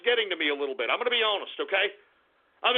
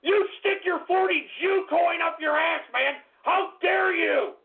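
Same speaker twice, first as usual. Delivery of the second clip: shaking with anger; 6 semitones higher than usual. Acted. Raging at a donor.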